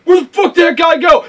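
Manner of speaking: mock puzzled outburst; baffled guard. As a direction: ask like a guard who lost his man. Voicing guard losing his target.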